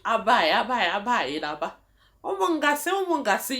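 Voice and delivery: a passenger yelling to flag down a bus in Nigeria; calling out for the bus. Retold or imitated. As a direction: holler it like a Lagos roadside passenger. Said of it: "you know how you do in Nigeria?".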